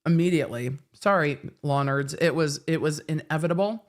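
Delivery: talking around ice in mouth. Real, not acted. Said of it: "I have ice in my mouth".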